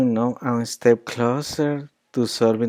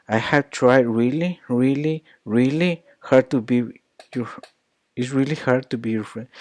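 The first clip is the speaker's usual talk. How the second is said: "really" repetido con tono alto y fuerza; stress on really; 2 semitones higher than usual. Shown as a demonstration. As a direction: carga cada "really" con énfasis. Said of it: "she really emphasized those words".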